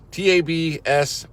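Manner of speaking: slow, letter by letter T A B S; spelled out. Real, not acted. Host spelling the hashtag for viewers, slow and distinct. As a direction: spell out each letter slowly.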